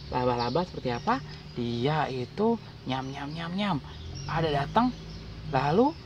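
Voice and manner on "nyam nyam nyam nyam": soft "nyam nyam" munching; low-key playful eating sound; munching noise. Retold or imitated. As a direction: imitate a little creature munching away. Imitating a spider eating.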